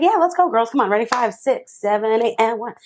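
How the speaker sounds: high-pitched count-in for dancers; rally the room, then count them off; dance teacher mode. Retold or imitated. Counting off girls practicing together, dance teacher mode. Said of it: "I was turned into dance teacher, teacher mode".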